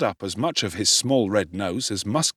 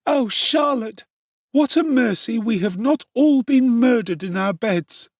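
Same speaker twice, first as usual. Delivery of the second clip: breathless; 13 semitones higher, 5 dB louder than usual. A narrator's reading. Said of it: "through a deficiency of breath".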